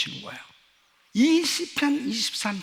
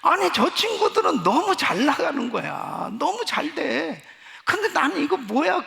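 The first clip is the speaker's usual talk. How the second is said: loud, rising cry of disbelief at friends' success; sermon story of envying rich friends, loud exclamation; exasperated outburst; 6 semitones higher, 5 dB louder than usual. Retold or imitated. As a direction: vent the envy out loud.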